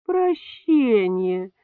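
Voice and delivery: slow, stretched-out ironic word; ironic drawl. A narrator's reading. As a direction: drag it out mockingly. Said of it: "иронически протянула Клавдия Петровна".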